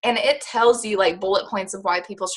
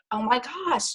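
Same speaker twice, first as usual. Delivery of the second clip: touched and grateful; 3 semitones higher than usual. Pretend. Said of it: "you're gonna be like".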